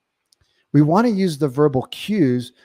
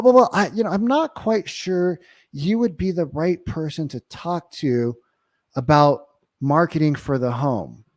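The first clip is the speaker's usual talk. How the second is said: hesitant, stumbling start, higher then easing down; unscripted transition; 4 semitones higher than usual. Shown as a demonstration. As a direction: sound unsure, as if thinking it up on the spot. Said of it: "to not sound scripted".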